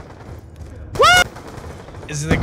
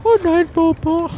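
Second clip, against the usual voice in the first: movie quote voice; 12 semitones higher, 4 dB louder than usual. Retold or imitated. Repeated movie quote, louder.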